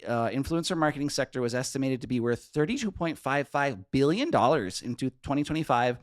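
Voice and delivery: loud, hammed-up Minnesota accent; thick Minnesota accent. Shown as a demonstration. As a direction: read the business news like a Minnesotan. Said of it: "killing it so hard with that accent".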